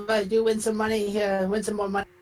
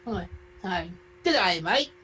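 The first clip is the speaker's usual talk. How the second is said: lightly put-on Australian accent; a casual mock-Australian greeting, only lightly accented. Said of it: "an Australian accent, it'd be like".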